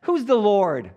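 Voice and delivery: loud, high, scornful challenge; arrogant Pharaoh. Retold or imitated. Preacher voicing Pharaoh's loud scornful demand. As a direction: sneer it like a proud king. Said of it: "Can you imagine how he's saying that".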